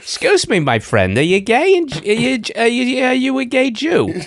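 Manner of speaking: high, hammed-up Jewish accent; sing-song Jewish street pitch. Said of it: "Jewish accent".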